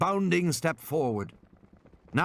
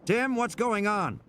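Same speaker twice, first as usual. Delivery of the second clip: Doctor Grant on radio; 10 semitones higher, slower than usual. Acted. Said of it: "It was Doctor Grant on the radio".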